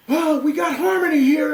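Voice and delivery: high, loud, elated shout from the stage; delighted calling out. Retold or imitated. Imitating a singer on stage hearing harmony, excited calling out. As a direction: imitate a singer thrilled by what he hears. Retold star calls out on stage.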